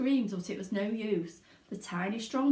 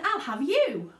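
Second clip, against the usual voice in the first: put-on spoiled girl; 6 semitones higher, 6 dB louder than usual. A narrator's reading. Veruca grabbing squirrel.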